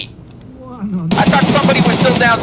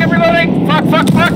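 yelling; 7 semitones higher than usual. Real, not acted. Firefight, reloading under fire.

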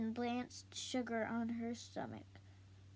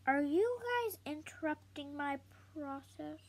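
scolding; 4 semitones higher than usual. Acted. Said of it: "Shay scolded them".

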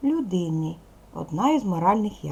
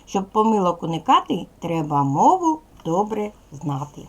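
sing-song rhyming welcome to the class; cheerful rhyme for second graders; rhymed class greeting. Acted. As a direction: chant the opening rhyme brightly for young pupils.

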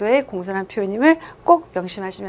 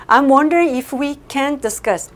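slow polite model sentence; 3 semitones higher, much slower than usual. Shown as a demonstration. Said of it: "wonder이라는 동사가요".

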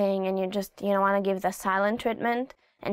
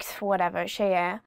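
put-on dismissive teen; 3 semitones lower, faster than usual. Shown as a demonstration. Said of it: "you can say to your parents".

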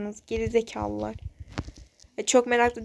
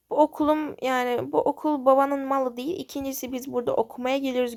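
defiant retort; 2 semitones higher than usual. Acted. Girl stands up to the bully.

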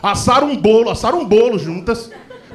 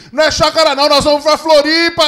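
cheeky schoolgirl; 6 semitones higher, 5 dB louder than usual. Retold or imitated. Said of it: "uma das alunas virou e falou".

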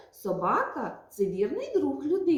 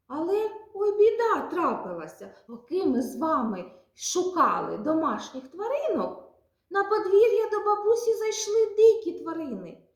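put-on high, louder storyteller alarm for kids; mock alarm; 4 semitones higher, 4 dB louder than usual. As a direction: gasp at the trouble to hook the children. Teacher announces trouble to children. (вдаваний переляк виховательки перед малятами)

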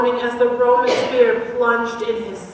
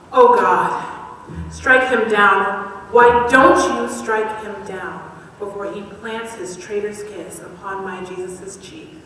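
pleading outcry; 5 dB louder than usual. Acted. Pleading cry to God.

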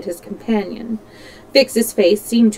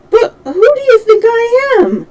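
high, loud outburst; exasperated question; 7 dB louder than usual. A narrator's reading. Puzzled detective confronts the servant, exasperated question. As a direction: demand an answer at raised pitch. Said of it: "looking at him patiently".

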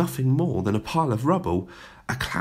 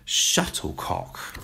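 slow, whispered in disgust; barely able to say it; 4 semitones lower, much slower than usual. A narrator's reading. Teacher appalled at badminton, whispering slowly. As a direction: force the word out, aghast. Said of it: "could barely bring herself to say it".

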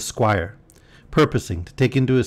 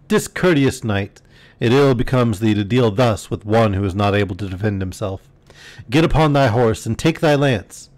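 angry call. Acted. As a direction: call the rogue to account with indignation. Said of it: "now called out in an angry tone".

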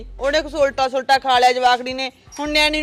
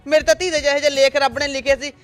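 loud aggrieved complaint; 4 dB louder than usual. Acted. Mother's loud grievance in quarrel.

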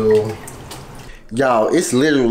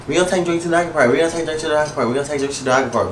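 mocking her own repeated line; 2 semitones higher, much faster than usual. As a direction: rattle it off like a broken record. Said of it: "I say the same stuff".

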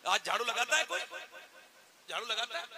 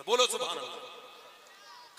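call to respond; 5 dB louder, much slower than usual. Real, not acted. Preacher calls crowd to respond.

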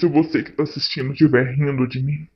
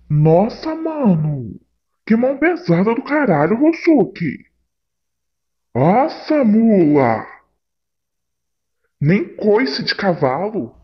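pain complaining; 5 semitones higher, 3 dB louder, slower than usual. Acted. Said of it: "Meu couro tá ardendo".

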